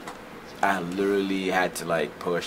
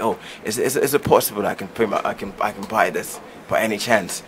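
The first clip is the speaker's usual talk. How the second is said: lightly put-on polite British accent; 3 semitones higher, 4 dB louder than usual. Shown as a demonstration. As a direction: ask the bookstore clerk in a mild British accent. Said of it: "I'll be talking like this".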